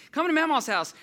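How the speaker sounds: high, loud little-boy imitation; excited six-year-old. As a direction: shout it like an eager kid. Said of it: "He's six".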